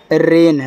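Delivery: "रेन" with a long e; correct pronunciation. Shown as a demonstration. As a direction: say "रेन" with a pure long "ay" vowel. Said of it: "रैन नहीं पढ़ना है".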